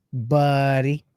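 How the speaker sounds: drawn-out eighties slacker "Buddy"; Pauly Shore style. Acted. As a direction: stretch "Buddy" out long in a comic impression. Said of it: "Pauly Shore style".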